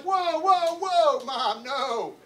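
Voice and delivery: loud, high run of whoas sliding down; alarmed protest. Retold or imitated. Son interrupting his scolding mother, loud alarmed protest. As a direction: cut in loudly to stop the accusation.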